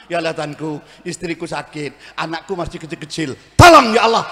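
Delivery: husband's prayer. Retold or imitated. Husband praying over a sick wife, mumbling then blurting. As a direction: mumble the troubles and blurt the plea. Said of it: "lihat kalau laki-laki berdoa".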